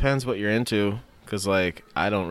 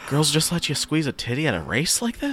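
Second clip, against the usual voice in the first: higher-pitched retold excitement; mock amazement; 6 semitones higher than usual. Recalling an exciting first viewing to a friend, mock amazed. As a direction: play up being amazed, pitch rising at the end. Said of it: "Remember how exciting that was?".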